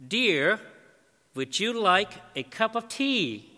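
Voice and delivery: a husband calling loudly to his wife. Retold or imitated. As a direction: call out to the next room. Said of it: "he said in a loud voice".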